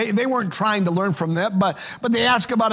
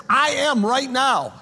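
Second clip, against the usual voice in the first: "I am" pressed slowly and raised high; stress on I AM; 4 semitones higher, slower than usual. Shown as a demonstration. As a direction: lean hard on "I am", take it slow. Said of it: "emphasis of that statement was in the verb".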